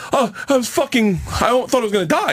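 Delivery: high, exasperated retold panic; retold near-death exasperation; mock panic. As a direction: blurt it out still rattled. Retold panic, much higher.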